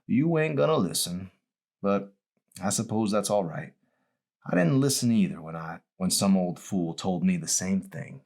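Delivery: lightly voiced old man, wistful; a hint of a worn old patient looking back; mild old-man voice, rueful; old dying man.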